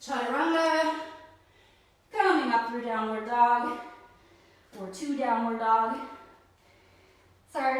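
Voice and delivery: panting between words, out of breath. Real, not acted. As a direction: speak while catching your breath. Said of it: "sorry, I'm out of breath".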